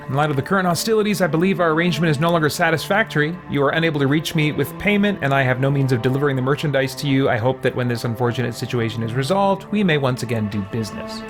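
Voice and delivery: brisk, formal read-aloud; quick, businesslike recitation; letter read aloud. Acted. Reads game letter aloud.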